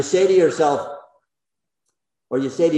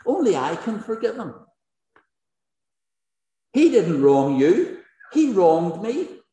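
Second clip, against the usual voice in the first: higher-pitched protesting victim, slightly slowed on the wrong; lightly voiced injured man pushing back; indignant Dick; 5 semitones higher than usual. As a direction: object like the one who was punched. Preacher voices Dick's protest.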